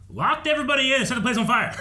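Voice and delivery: high, loud, laughing disbelief; laughing exasperation; incredulous laugh. Pretend. Scolding May in imagined quote.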